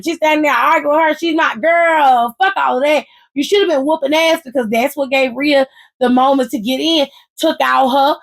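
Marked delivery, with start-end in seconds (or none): 1.1-3.1 retold shout. Bianca defending Io, shouting.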